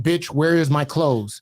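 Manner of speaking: slow mock yell of an angry ex; slow retold shout. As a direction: bark out the ex's threat, drawn out. Ex's threat message retold.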